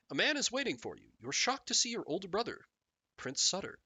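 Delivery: measured storybook narrator; expressive read-aloud narration; game story narration. Acted.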